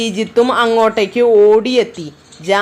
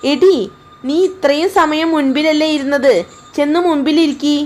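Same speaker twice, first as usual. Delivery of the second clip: higher, mildly scolding; bossy elder sister; 5 semitones higher than usual. Acted. Jani telling her sister to sit in front, mild scolding.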